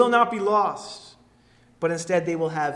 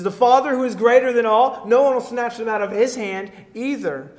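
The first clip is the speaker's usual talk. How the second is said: louder and higher, proclaiming each word; booming declaration; 6 semitones higher, 8 dB louder than usual. Acted. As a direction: ring it out like a promise from the pulpit. Preacher booms Jesus's promise.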